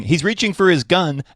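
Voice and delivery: hammed-up alarm from a cop; mock panicked scream. Panicking cop screams to fellow officers, mock alarm.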